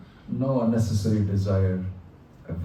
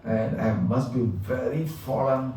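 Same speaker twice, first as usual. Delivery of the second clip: mild mock crying plea; 4 dB quieter, slower than usual. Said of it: "on the floor crying and saying".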